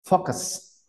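"focus" said with a soft, short E-like vowel. Shown as a demonstration. Teacher modelling focus for students. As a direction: say "focus" with a light e. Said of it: "es como una E en focus".

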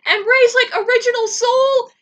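high, loud, crying with joy; teary joyful squeal. Real, not acted. Fan celebrating Rei's fate, high teary squeal. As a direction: squeal it through happy tears. Overjoyed about Rei surviving.

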